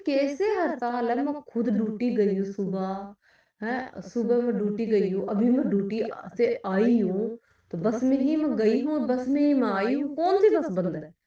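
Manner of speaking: mildly heated re-enacted protest; indignant disbelief. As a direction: challenge the claim, rising to a loud final question. Retold argument over bus strike.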